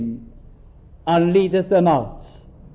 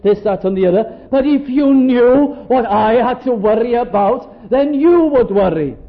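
aggrieved complaint. Retold or imitated. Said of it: "a person would say".

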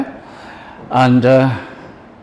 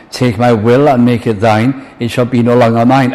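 louder, declaimed devotional verse; fervent hymn recitation; 5 dB louder than usual. Acted. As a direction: recite it as a wholehearted vow to God. Reciting hymn lines in preaching.

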